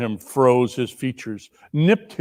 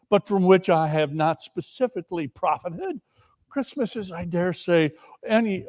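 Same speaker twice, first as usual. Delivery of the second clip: earnest nephew; 4 semitones higher than usual. Acted. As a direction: sincerely defend Christmas. Nephew's Christmas speech.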